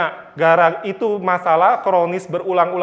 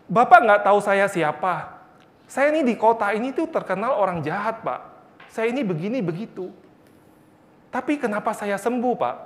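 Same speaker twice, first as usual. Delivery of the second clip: higher, lightly acted tearful confession; menangis gemetar; 3 semitones higher than usual. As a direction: retell a shaken man's bewildered plea, pitched up. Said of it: "gemeteran, nangis, berkata". (menirukan pengakuan orang yang terharu)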